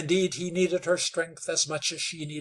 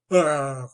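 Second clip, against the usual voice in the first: grunted exclamation; 9 dB louder than usual. Acted. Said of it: "exclaimed the Indian".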